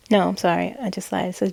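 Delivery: ordinary delivery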